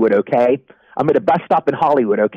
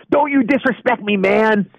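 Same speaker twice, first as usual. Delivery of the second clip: gangbanger threat; 6 semitones higher, slower than usual. Retold or imitated. Gangbanger confronts him at bus stop.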